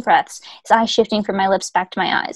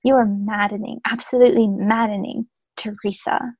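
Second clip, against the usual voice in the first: mock Leeds accent as the angry hero; broad Leeds vowels, half-hearted; put-on Leeds accent. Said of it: "zoomed into, like, a Leeds accent".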